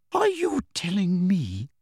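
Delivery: high, slow stern teacher; stern Professor McGonagall. A narrator's reading. Professor questions Harry out of others' hearing, stern. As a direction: press him with disbelief.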